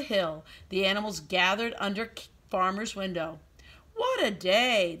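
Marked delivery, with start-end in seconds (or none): 3.9-5.0 slow yawned words; yawning. Acted. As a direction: say it through a yawn. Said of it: "they heard the farmer yawn".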